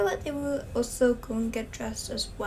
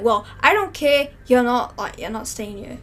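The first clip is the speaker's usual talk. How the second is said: loud dismissive; 6 dB louder than usual. Pretend. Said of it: "he's like".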